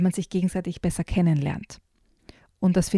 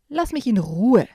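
annoyed; 4 semitones higher, 3 dB louder than usual. Acted. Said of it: "sagt Jojo genervt".

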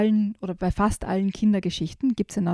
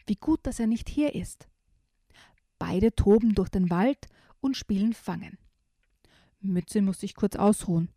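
put-on lively read-aloud for children; reading a picture book to kids; story narration.

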